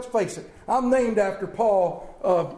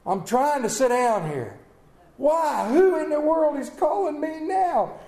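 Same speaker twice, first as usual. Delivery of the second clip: annoyed grumble; 5 semitones higher than usual. Retold or imitated. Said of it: "I look at that thing and go".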